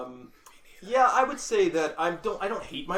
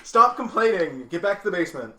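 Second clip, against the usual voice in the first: mock scolding; 6 dB louder than usual. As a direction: pile on with a playful telling-off. Joking continuation of the scolding.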